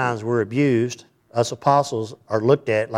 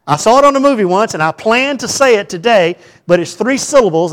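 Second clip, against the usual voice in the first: laughing; 10 semitones higher, 10 dB louder than usual. Real, not acted. Laughing over a forgotten French phrase.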